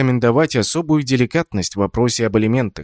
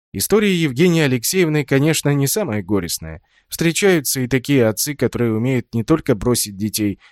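plain reading voice

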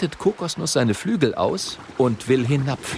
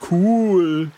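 loud, delighted cool; a thrilled kid; excited; 6 semitones higher, 6 dB louder than usual. A narrator's reading. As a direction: cheer at the trick. Oskar excited.

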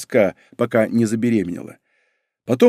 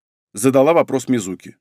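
ordinary delivery, nothing marked

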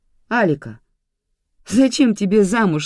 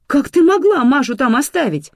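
much higher and louder, aghast; horrified gasp; 11 semitones higher, 9 dB louder than usual. A narrator's reading. Mother to grandmother about leaving her daughter, horrified. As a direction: gasp it out in horror. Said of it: "ахнула от ужаса мама".

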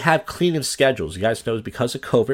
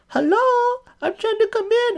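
much higher put-on woman's voice, pressing to come in; impatient cleaning woman. Cleaning woman at the door wanting in, high impatient mock voice. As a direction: pitch way up like the cleaning lady losing patience. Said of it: "finally she goes".

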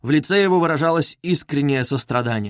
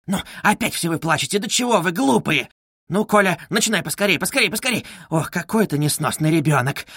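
fretful, higher-pitched scolding mother; Katerina Ivanovna; 4 semitones higher than usual. Acted. Mother scolding her crying children, fretful. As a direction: scold the children, exasperated and high.

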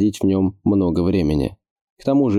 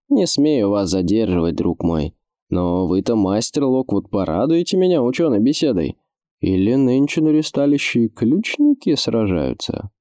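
a hint of a jolly nobleman; lightly voiced hearty lord; jovial fat lord; 3 semitones higher than usual.

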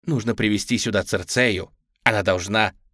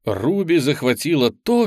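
ordinary delivery

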